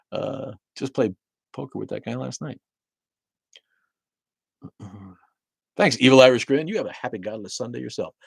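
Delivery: ordinary talk, nothing marked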